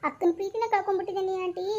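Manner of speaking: mild acted weeping; acted crying. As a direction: act out grief for the lost sister. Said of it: "ಆ ಹುಡುಗಿನ ಅಳ್ಸಕತ್ತಲ್ಲಲೇ".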